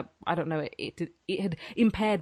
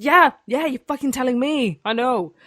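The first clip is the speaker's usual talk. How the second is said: exasperated; 6 semitones higher, 5 dB louder than usual. Retold or imitated. Retold exasperation.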